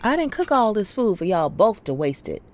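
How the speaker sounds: high, loud mother's scolding. Acted. Mother to family over wasted food, scolding. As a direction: scold them loudly across the table.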